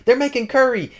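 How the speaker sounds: very high sing-out to a friend; high, playful mock announcement; gleeful calling out. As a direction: imitate someone excitedly tattling across the room. Aqua calling out to Cosmo.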